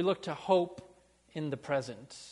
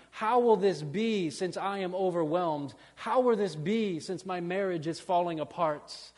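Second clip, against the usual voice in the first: rising, louder pleading lament; pleading cry; 2 semitones higher, 5 dB louder than usual. Retold or imitated. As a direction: plead with God, building each line. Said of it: "and say".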